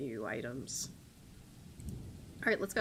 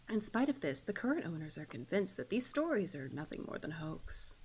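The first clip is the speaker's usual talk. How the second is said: measured, softening narrator voice; deliberate ghost-story telling; story narration; 3 semitones lower, 4 dB quieter than usual. Acted. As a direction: read it as an ominous prologue. Reads the game's story intro.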